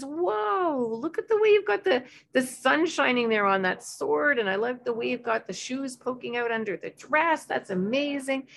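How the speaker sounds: high, awed, lingering praise; delighted wonder. Shown as a demonstration. Parent admiring the child's painting, delighted. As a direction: marvel at every detail. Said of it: "really just kind of, um, reflect back the joy".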